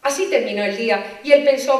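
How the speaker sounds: ordinary talk, nothing marked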